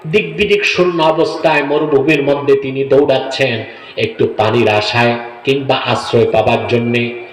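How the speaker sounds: sing-song sermon narration; ওয়াজের বয়ান. A narrator's reading. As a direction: preach the story in long intoned phrases, letting each sink at the end. Preacher narrates a sacred story. (ওয়াজের সুরে কাহিনি বলা)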